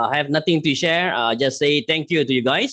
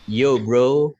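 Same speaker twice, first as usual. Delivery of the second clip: Malik-style greeting. Retold or imitated. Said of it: "Cik Malik".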